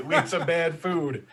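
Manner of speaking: said through a laugh. Real, not acted. Joke said while laughing.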